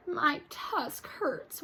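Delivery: very slow mild whimper; a touch of crying; hurt kid telling grandpa, slow and pained; cried. Acted. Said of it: "Wilbur cried".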